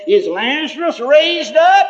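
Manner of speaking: high, slow, laughing wonder; a chuckling old grandpa asking; grandpa's laughing question. Retold or imitated. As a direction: ask it laughing with amazement. Grandpa greeting risen grandson.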